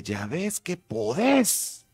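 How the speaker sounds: high, drawn-out mock shout; retold yell. Producer to announcer through the glass, high mock shout. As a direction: stretch it out, pitch climbing at the end. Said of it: "pero así un gran grito".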